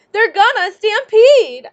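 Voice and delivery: high, loud warning cry; alarmed shout. Acted. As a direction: yell the danger to everyone. Alarm raised in a stampede.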